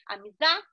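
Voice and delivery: Amizade with ZA punched loud; stress on the third syllable of Amizade. Shown as a demonstration. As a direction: hit ZA hard in Amizade, then drop off. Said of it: "ela pronuncia mais forte". (Amizade com a sílaba ZA bem forte)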